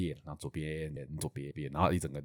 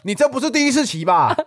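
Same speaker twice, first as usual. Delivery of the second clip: imitating the old man; 9 semitones higher, 5 dB louder than usual. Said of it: "口气就是这样子".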